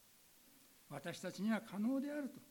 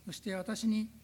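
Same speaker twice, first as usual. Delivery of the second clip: prayer. Real, not acted. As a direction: pray to the Father with fervent conviction. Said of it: "お祈りをさせていただきます".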